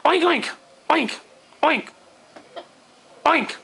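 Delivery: hammy oinking pig; pig noises. Pretend. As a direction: oink like a pig. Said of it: "I summon a pig".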